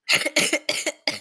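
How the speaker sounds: harsh coughing fit; coughing up water. Real, not acted. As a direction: cough like water went down wrong. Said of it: "Choking on water".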